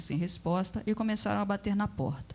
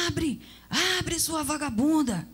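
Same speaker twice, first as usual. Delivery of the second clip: higher, slow threatening yell; furious shouting man; 8 semitones higher, slower than usual. Acted. TV thug pounds on the door, yelling angrily. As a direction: bang on the door and bark it. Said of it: "um homem gritava, espancando a porta".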